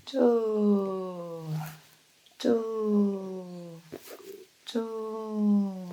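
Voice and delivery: soft, drawn-out half-hearted kiai; mock kiai, barely voiced; weak kiai. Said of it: "기합 소리가 쭈쭈가 뭐냐?".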